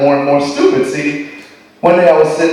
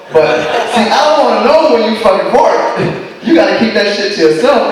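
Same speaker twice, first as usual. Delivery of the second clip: higher, laughing complaint; laughing rant; 5 semitones higher than usual. Real, not acted. Comic ranting at the girlfriend about her farts.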